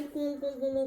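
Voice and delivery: soft, high little whines; imitated pet whining. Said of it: "इसकी एक बहुत गंदी आदत है". (पालतू के कूं-कूं की हल्की नकल)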